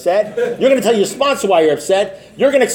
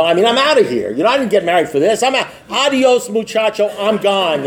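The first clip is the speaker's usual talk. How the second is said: fed-up walkout rant, rising higher on the farewell; retold indignation; 4 semitones higher than usual. Telling his sponsor he is leaving his wife, mock pissed off. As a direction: act out a mildly heated, I'm-done outburst. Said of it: "and I was pissed".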